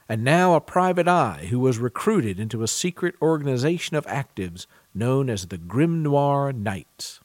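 smooth podcast ad read over music; announcer read. Acted. Podcast host introduces the audiobook to listeners, announcer read. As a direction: sell it like a radio spot, even and polished.

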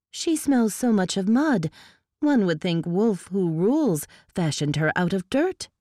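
lightly voiced elf noblewoman, sniffing disdain; a hint of a high, scornful courtier; lightly voiced disdainful elf lady; haughty elf lady. Sparrow's disdainful speech.

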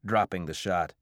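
ordinary delivery

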